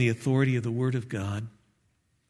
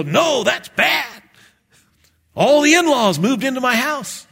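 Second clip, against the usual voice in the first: glum barber; 10 semitones higher, 5 dB louder than usual. Retold or imitated. Preacher plays the barber turning it bad, high shout. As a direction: wail it like a hammed-up barber. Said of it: "And he'd go".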